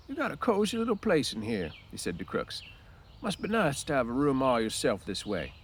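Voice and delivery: polite small talk from an awkward visitor; old Candy. Acted.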